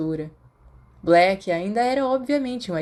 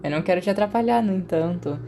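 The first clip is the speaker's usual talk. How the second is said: innocently; faster than usual. Acted. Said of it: "Sirius disse inocentemente".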